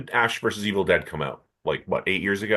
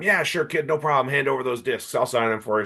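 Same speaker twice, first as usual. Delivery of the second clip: cigar-chomping producer; 5 semitones higher than usual. Retold or imitated.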